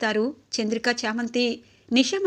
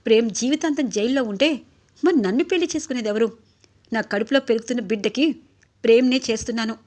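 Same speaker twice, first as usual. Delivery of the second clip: louder, sharp angry rebuke; angry scolding; 4 dB louder than usual. Acted. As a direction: tear into him after the slap. Nisha slaps Guna, scolds him. (కోపంగా గట్టిగా తిట్టడం)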